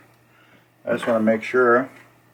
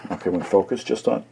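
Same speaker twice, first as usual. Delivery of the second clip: speaking through hiccups. Real, not acted. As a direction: talk with bad hiccups. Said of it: "I got hiccups bad".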